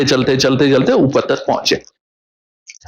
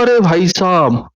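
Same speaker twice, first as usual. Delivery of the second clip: excited outburst; 5 semitones higher than usual. Retold or imitated. Vidyapati eagerly wanting to jump into the pool, high and excited. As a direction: blurt it out like you can't wait to jump.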